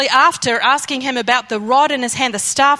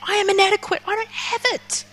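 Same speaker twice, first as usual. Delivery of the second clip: pleading to God; 4 semitones higher than usual. Acted. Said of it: "respond to God like that".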